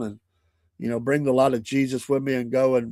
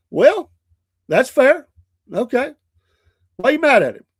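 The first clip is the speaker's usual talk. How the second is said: much higher, lighter voice for the grandchild; playful grandpa voice; 11 semitones higher, 7 dB louder than usual. Retold or imitated. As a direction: humour the angry granddaughter gently.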